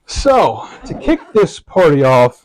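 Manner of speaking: talking through a mouthful of tobacco; words round a wad of tobacco; mouth full. Real, not acted. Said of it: "got tobacco in my mouth".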